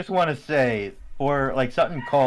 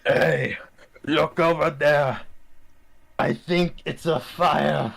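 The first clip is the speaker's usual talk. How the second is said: raspy voice; 2 semitones higher, slower than usual. Acted. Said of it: "L J said in a raspy voice".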